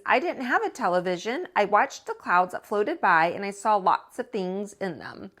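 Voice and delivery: lively, expressive read-aloud voice; story narration. A narrator's reading. Teacher reading a picture book to children, lively storytelling. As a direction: read it like to a class of kids.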